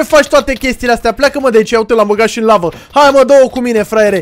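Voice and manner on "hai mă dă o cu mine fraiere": loud cocky dare; taunting challenge. Real, not acted. Gamer daring the villain to fight, loud taunt. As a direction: dare him to come at you.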